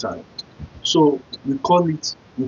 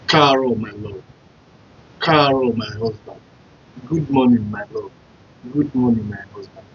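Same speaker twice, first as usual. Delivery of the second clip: greeting husband; 3 semitones lower than usual. Shown as a demonstration. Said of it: "be like".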